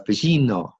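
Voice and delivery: Firmino in a light mock Italian commentator accent; dodgy Italian accent. Recalling the commentator calling his goal, mock Italian accent. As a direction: roll out Firmino like an Italian commentator, half-joking. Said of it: "dodgy Italian accent".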